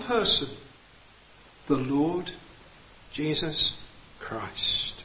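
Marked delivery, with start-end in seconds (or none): 1.7-5.0 fading to a near whisper on Christ; hushed and reverent. Shown as a demonstration. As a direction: drop the voice softly, with awe, on "the Lord Jesus Christ".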